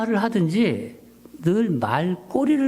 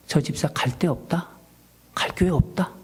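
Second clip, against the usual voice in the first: voice of the Lord. Retold or imitated. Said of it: "한 주님의 음성이, 예, 마음에 들렸어요".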